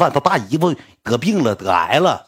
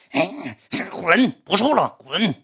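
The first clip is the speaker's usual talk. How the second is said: retold angry dismissal; 4 semitones higher, much slower than usual. Acted girlfriend's breakup outburst in quarrel.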